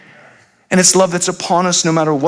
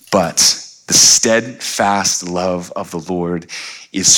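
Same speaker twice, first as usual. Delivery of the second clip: scripture reading; 3 semitones lower than usual. Acted. Preacher reading Psalm 103 to the congregation, solemn and measured. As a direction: read it like sacred text, letting lines land.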